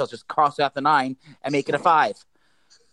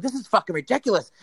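mild mock yell, a bit higher; retold screaming; 5 semitones higher than usual. Customer going off in the pharmacy, mild retold screaming. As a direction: tell of screaming without really screaming. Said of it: "I'm going off screaming".

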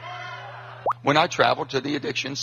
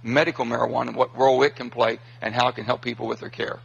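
recorded clip; 3 semitones lower than usual. Real, not acted. Clip of senator at town hall.

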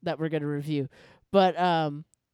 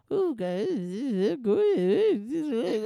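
put-on slow, gloating little girl voice; Angelica voice; 4 semitones higher, much slower than usual. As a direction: savor it like a sneaky kid. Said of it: "Angelica just in the corner".

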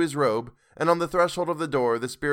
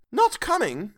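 crestfallen Bob; 11 semitones higher, 3 dB louder, slower than usual. A narrator's reading. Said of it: "with a sudden declension in his high spirits".

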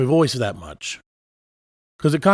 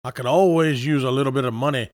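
Foghorn Leghorn; 3 semitones lower than usual. Acted. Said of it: "a hint of Foghorn Leghorn in that voice".

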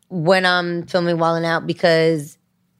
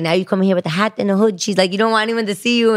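put-on Jamaican accent; faster than usual. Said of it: "super thick, um, Jamaican accent".

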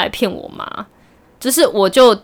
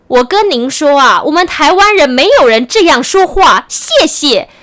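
mocking Mainland Chinese accent; 4 semitones higher, 4 dB louder, slower than usual. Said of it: "我就开始学他".

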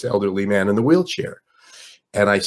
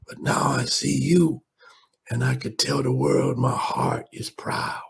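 put-on frail old man; 3 semitones higher than usual. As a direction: breathe it out slowly, a lightly voiced frail old man. Old man's tender tribute.

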